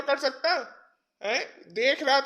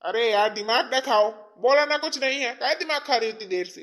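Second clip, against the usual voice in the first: irritated brush-off. Acted. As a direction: snap wearily at a nagging wife. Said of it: "आप कैसे बोल रहे हैं?".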